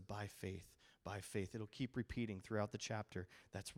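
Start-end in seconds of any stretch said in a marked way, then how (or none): 0.0-1.5 faith leaned on softly twice; stress on faith. Shown as a demonstration. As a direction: let "faith" ring as a refrain. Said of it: "Notice the".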